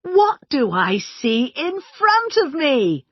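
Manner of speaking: bright excited call, slowed; excited cry. A narrator's reading. Patrick greeting the birthday tea, excited. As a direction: exclaim it with delight. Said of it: "cried Patrick excitedly".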